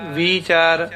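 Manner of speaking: ਵਿਚਾਰ with a long ee in the first syllable; long i sound. Shown as a demonstration. Teacher showing the long ee in ਵਿਚਾਰ. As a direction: stretch the vowel of ਵਿ in ਵਿਚਾਰ. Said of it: "double ਈ ਦੀ sound ਦੇਣੀ".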